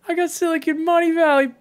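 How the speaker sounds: imitating Fear Dragon's drunken brag; mock drunk shout. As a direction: play a friend shouting drunk. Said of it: "he's just shouting drunkenly".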